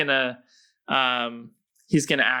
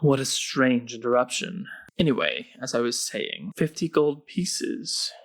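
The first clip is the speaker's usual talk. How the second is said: ominous hooded stranger. Acted. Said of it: "the hooded figure says".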